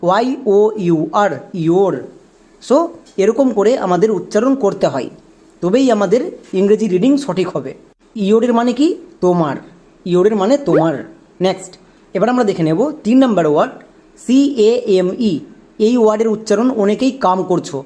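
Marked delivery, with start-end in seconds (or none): 1.6-1.9 "ইয়োর" with an o sound before r, ee-yor; demonstrated pronunciation. Shown as a demonstration. Teacher giving the result after spelling the word, "ইয়োর" as ee-yor. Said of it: "তাহলে আমাদের এই শব্দের উচ্চারণটা দাঁড়ালো". 17.2-17.4 "কাম" with an open "aa" vowel, kaam; mistaken pronunciation. Shown as a demonstration. Teacher citing many learners' mistake for came, "কাম" as kaam. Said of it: "এটা আমাদের সম্পূর্ণ ভুল উচ্চারণ".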